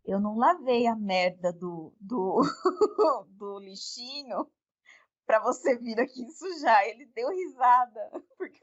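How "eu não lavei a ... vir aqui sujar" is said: mock sweet rebuke. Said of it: "Aí eu falei assim".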